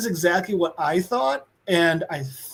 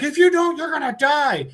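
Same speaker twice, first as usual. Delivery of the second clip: threat; 10 semitones higher than usual. Retold or imitated. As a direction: lean in hard on the warning. Neighbor threatens Tariq.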